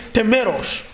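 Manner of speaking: normal talking voice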